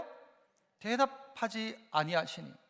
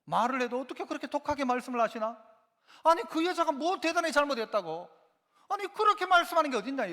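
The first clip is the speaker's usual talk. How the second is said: mock-indignant, higher and louder as it goes; indignant protest; 4 semitones higher, 3 dB louder than usual. Offended believer taking Jesus to task, indignant. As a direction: protest as if personally let down.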